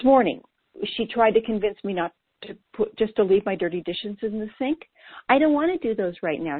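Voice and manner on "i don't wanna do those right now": put-on a touch of toddler whine; lightly whiny, like a sulky kid; mild mock whine of an inner toddler; whined. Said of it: "she whined".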